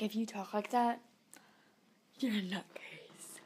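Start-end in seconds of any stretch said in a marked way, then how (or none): 2.2-3.4 whispering. Real, not acted. Teasing aside.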